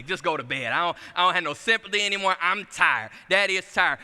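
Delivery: exasperated father at bedtime; tired dad. Retold or imitated. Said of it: "That's all I could say".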